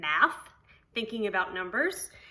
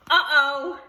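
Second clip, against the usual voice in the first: uh-oh; 3 semitones higher, 8 dB louder than usual. Pretend. Doorbell rings yet again.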